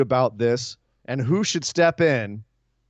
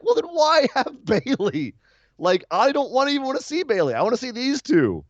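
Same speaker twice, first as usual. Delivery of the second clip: exasperated; 11 semitones higher than usual. Retold or imitated. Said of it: "And I'm like".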